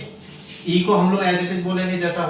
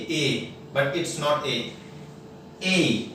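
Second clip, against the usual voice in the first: slow contrast demo; much slower than usual. Shown as a demonstration. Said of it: "हम लोग इसको pronounce करते हैं ए".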